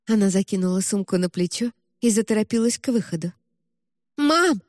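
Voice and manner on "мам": daughter cries out to departing mother; shouted call. A narrator's reading. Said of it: "крикнула Эбель".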